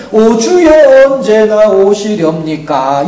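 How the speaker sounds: very slow, drawn-out mock prayer; mock pious lament. Preacher mocks a passive believer waiting for heaven, very slow. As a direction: stretch it like an idle pious sigh. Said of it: "이러고 있는 거예요".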